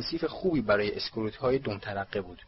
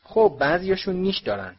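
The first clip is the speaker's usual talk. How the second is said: high, louder, enthusiastic answer; eager; 7 semitones higher, 5 dB louder than usual. A narrator's reading. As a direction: answer with keen interest. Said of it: "با اشتیاق جواب داد". (با اشتیاق)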